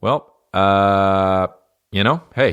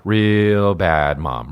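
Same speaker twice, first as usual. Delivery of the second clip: drawn out; much slower than usual. Shown as a demonstration. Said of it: "repeated phrase drawn out".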